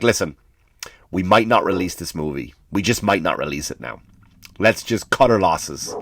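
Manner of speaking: a mock solemn executive calling it off; imitating the Disney boss. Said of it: "he's saying, like".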